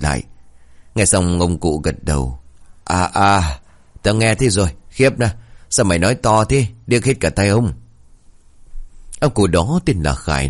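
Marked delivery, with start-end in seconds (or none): 2.8-7.7 put-on cranky old grandpa; grumpy old man.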